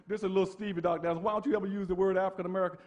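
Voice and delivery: a hint of Stevie on the phone, fast at the end; lightly voiced Stevie Wonder. Preacher lightly voicing Stevie Wonder's phone call. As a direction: tell it like Stevie asking, lightly. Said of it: "my friend Stevie Wonder called me".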